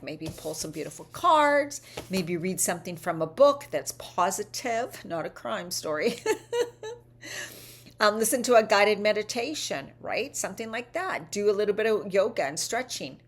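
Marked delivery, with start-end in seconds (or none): 6.3-6.9 high giggle; amused laugh. Real, not acted. Coach joking about crime stories, amused high giggle. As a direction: giggle at your own aside.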